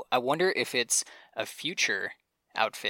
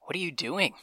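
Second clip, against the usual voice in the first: breathy hushed whisper, a bit higher; 5 semitones higher, 4 dB quieter than usual. Pretend. Voicing Met Gala Taylor whispering at the others. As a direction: lean in and whisper it. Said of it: "Met Gala Taylor says".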